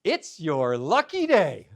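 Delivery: slow, drawn-out clerk's announcement; store clerk's pronouncement. Retold or imitated. Hardware clerk greeting a wary customer, slow pronouncement. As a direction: stretch it out like a momentous pronouncement. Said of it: "he comes up and he goes".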